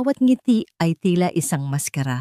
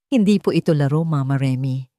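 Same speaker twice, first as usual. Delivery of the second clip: mild firm voice. Acted. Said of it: "boses ay matatag".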